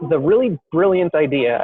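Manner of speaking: dryly sarcastic praise. Real, not acted. Entrepreneur telling interviewer about a misguided plan, sarcastic. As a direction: say it with understated sarcasm. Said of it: "I'm saying that completely sarcastically".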